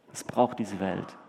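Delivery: hushed, slow closing line of the point; quiet, slow emphasis. Acted. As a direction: drop the voice and slow down on Welt. Preacher repeats the point, quieter.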